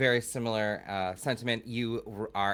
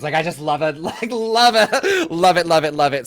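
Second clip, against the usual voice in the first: much higher and louder, laughing repetition; real gushing with laughter, higher and louder; gushing excitement; 6 semitones higher, 11 dB louder than usual. Real, not acted. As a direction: gush with delight, laughing through it. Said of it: "I'm, like, a slut for incantations".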